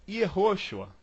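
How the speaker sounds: YEHOSHUA read as spelt, Portuguese-style; uncorrected letter-by-letter reading of Yehoshua; naive reading. Shown as a demonstration. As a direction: say Yehoshua plainly as ye-HO-shua. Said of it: "sem pronunciar corretamente".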